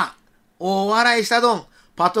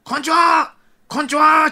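put-on high, hearty children's hello; big-voiced greeting; 9 semitones higher, 3 dB louder than usual. Children saluting a patrol car, big-voiced hello. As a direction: call out hello in a big voice like excited kids. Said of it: "ふっとか声で".

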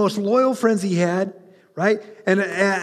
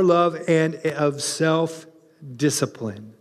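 scripture reading; 3 semitones lower than usual. Acted. Preacher reading scripture to the congregation, measured. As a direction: read the letter aloud with reverence.

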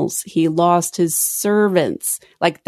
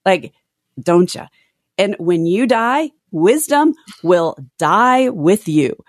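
sarcastic. Retold or imitated. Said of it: "in such a sarcastic way".

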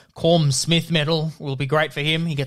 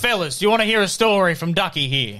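gruffly fond coach, pitched down; Coach Brick, indulgent; faster than usual. Acted. Plays Coach Brick to his players.

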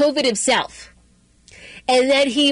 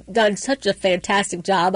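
sarcastic; 4 semitones lower than usual. Real, not acted. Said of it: "obviously that's sarcasm".

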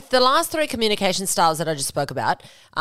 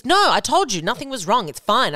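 mildly irritated, higher-pitched insistence; insistent denial; 4 semitones higher than usual. Acted. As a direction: act out a defensive partner shutting it down. Acted denial when confronted.

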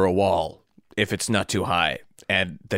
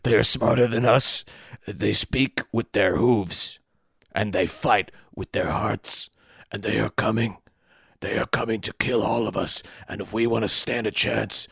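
Caesar. Acted. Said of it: "I am Caesar".

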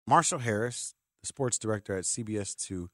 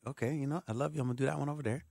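meek reply; 2 semitones higher, 6 dB quieter, faster than usual. Retold or imitated. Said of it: "And I'm like".

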